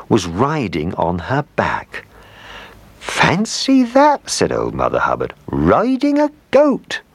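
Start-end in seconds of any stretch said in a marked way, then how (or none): 3.0-4.3 slow, very high exclamation; storybook amazement, pitched way up; amazed. A narrator's reading. Mother Hubbard amazed at her dog. 5.5-7.0 high, drawn-out disbelief; storybook astonishment, pitched way up; amazed. A narrator's reading. Mother Hubbard amazed at her dog.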